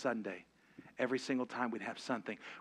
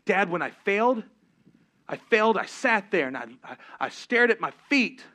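a son pouring out his story, raised and urgent; son retelling, worked up; 5 semitones higher, 11 dB louder than usual. Retold or imitated. Son telling dad how he failed, loud and earnest. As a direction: tell it like the boy reliving his failure. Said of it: "He goes".

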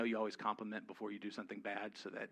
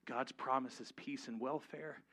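ordinary talk, nothing marked

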